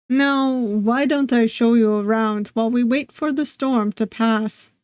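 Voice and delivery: a question that is really an order; a hint of a commanding host; statement-like question. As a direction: insist politely, falling tune at the end. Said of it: "His question sounds more like a statement".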